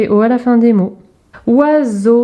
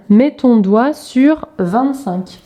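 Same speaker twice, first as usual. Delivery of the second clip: consigne lente; 3 semitones higher, much slower than usual. Shown as a demonstration. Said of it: "consigne directe à l'élève".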